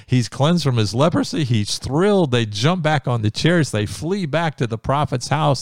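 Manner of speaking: high, loud joyful telling; excited. Real, not acted. Preacher to his congregation about Naaman's healing: high, loud excitement. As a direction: tell it bursting with joy.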